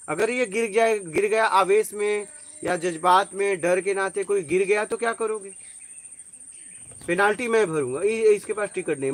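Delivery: retold heated protest. Defending a ticketless boy before men scolding him, heated protest. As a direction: step in and argue forcefully.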